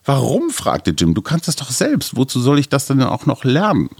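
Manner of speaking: put-on reading a children's book aloud with voices; story reading. Host reads a Jim Knopf passage to his co-host, storybook voice. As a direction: tell it like a bedtime story.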